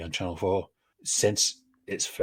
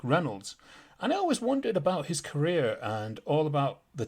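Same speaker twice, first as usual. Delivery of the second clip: lightly heightened presenter's read; scripted guest introduction; 5 semitones higher than usual. Real, not acted. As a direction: tell the backstory, building to welcome the guest.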